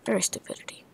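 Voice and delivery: whispered fake-broken English taunt; mock whispered insult. Gamer whispering goofy insults at an opponent, mocking. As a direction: hiss the silly insult under your breath.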